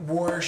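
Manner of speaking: "wash" with an added R, "warsh"; mom's "wash". Retold or imitated. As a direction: slip an R into "wash". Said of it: "she'll, like".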